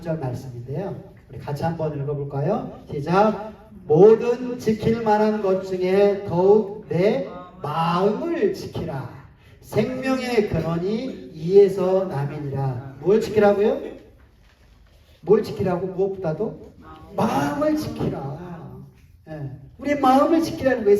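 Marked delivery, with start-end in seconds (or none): 3.9-13.0 slow, measured congregational reading; deliberate recitation with drawn-out words; scripture reading. Acted. Leads congregation reading scripture aloud. 17.1-18.8 slow, measured congregational reading; deliberate recitation with drawn-out words; scripture reading. Acted. Recites the verse's key phrase.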